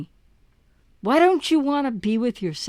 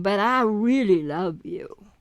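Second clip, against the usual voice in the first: lower, slow fake tenderness; mock pleading; 4 semitones lower, slower than usual. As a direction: plead it like a manipulative ex. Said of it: "hoovering going".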